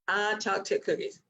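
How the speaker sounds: put-on a light childish voice, quick and stubborn; stubborn toddler. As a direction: repeat it like a stubborn little kid.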